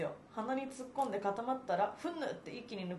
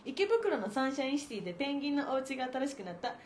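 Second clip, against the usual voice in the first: japanese gyaru slang; 4 semitones higher than usual. Acted. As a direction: read it like a hyper teen gyaru. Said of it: "このキャラムカつきまるな".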